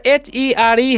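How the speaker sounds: slow, letter by letter; spelling out letters. Shown as a demonstration. Teacher spelling a word for beginners, slowly. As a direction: spell H-E-R-E out one letter at a time. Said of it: "ये हो जाएगा एयर".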